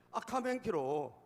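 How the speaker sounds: loud, drawn-out Gyeongsang warning call; slow mock call of a warning sparrow; dialect warning. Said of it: "문경세제 참새가 알려준 거야".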